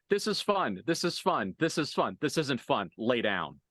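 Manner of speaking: mock singsong of a fighter; lightly voiced taunting fighter. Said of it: "it's literally David's just like".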